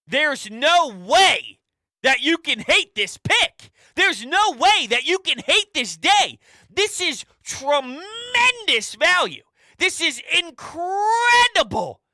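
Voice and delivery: rising into a high, loud, drawn-out outburst; incredulous shouting rant. Real, not acted. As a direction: shout the disbelief bigger with every phrase. Host rants at disappointed caller.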